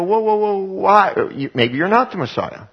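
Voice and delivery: high, startled doubting crowd; startled whoa. Retold or imitated.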